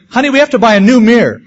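half-laughing, pretending to blame the mirror; laughing mock complaint. Joking to his wife about buying a new mirror, laughing.

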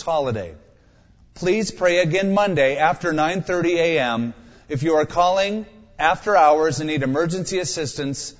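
automated phone message; phone menu voice. Pretend. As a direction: read it like a recorded phone menu. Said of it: "Imagine praying but getting this".

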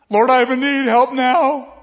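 loud, high, impatient plea to God; pushy high loud prayer; demanding prayer. Pretend. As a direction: demand help right now, like a spare tire. Demanding quick-fix prayer illustration.

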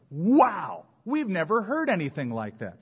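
high, eager amazed exclamation; amazed crowd. Retold or imitated. Preacher voicing the crowd stunned by Jesus. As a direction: sound like you can't believe what you heard. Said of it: "They went".

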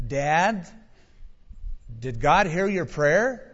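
lightly voiced innocent child's question; innocent little daughter. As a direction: ask Dad innocently, tone rising at the end. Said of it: "she just said very innocently".

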